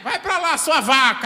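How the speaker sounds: high, loud insult cut with a laugh; hammed-up yell at a spouse, half laughing; mock arguing shout. Couple in a quarrel trading insults, laughing mock shout.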